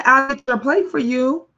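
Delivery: sweetly cajole the sister, quickly; lightly imitating siblings. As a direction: siblings coaxing a moody sister, lightly voiced. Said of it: "And they would say".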